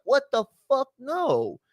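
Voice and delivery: frantic, high no no no at the vet's price; mock panic at a four-grand bill; panicked refusal. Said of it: "We're like".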